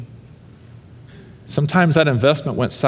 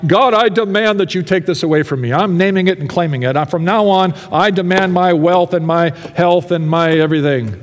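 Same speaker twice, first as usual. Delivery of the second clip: mocking a name-it-claim-it prayer; mock demanding; 5 semitones higher than usual. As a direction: ham up a pushy prayer. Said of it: "he can't demand God".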